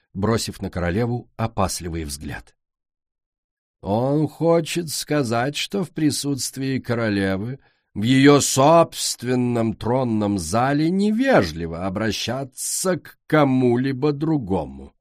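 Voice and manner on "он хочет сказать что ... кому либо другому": slow, haughty grande dame; haughty queen. Acted. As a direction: lecture down your nose, slowly. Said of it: "надменно произнесла Пурпур".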